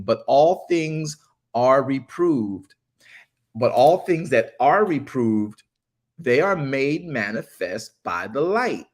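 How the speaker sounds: slow, deliberate verse reading with weighty key words; scripture reading. A narrator's reading. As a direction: read the verse out slowly, stretching each key word. Reads scripture aloud slowly.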